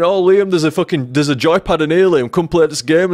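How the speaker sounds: lightly put-on cajoling voice; coaxing. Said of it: "trying to coax me into the car".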